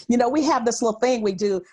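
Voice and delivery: ordinary talk, nothing marked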